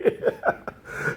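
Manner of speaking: shrill burst of laughter, high; high wheezing laugh; high squeaky laugh. Real, not acted. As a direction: cackle at the joke. Laughs after bully quote.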